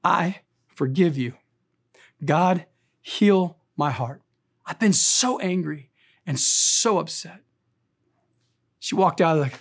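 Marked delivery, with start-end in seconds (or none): 0.0-7.4 slow, hushed retold prayer; quiet inner prayer. Grieving woman forgiving her husband in prayer, slow and hushed. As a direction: let each word of the prayer settle, slowly. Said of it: "able to whisper words in my soul".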